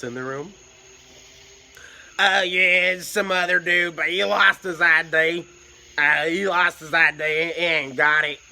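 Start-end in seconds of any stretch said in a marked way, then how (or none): 2.2-8.4 loud, higher southern drawl, slow; loud southern drawl, a bit higher. Retold or imitated. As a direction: imitate a rough southern drawl. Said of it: "southern drawl".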